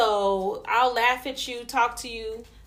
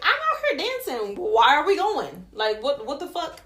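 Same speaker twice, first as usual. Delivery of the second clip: retold protest; 3 semitones higher than usual. Retold protest on dance floor.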